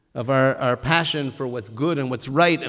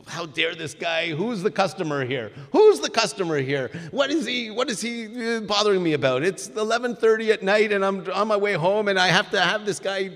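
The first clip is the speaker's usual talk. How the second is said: boiling inner indignation; 5 semitones higher than usual. Retold or imitated. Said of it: "Itamar feels his blood beginning to boil".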